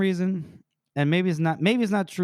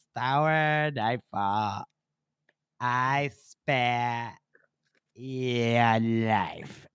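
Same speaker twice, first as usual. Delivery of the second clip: very slow, drawn-out pronouncement; solemn victor; 4 semitones lower, much slower than usual. Acted. Victor spares his beaten foe, slow solemn pronouncement. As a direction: draw each word out, weighty and low. Voices the victor granting mercy.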